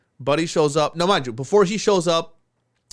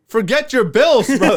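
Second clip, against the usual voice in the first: mock gruff owner; 7 semitones higher, 8 dB louder, slower than usual. Owner waving off the bill.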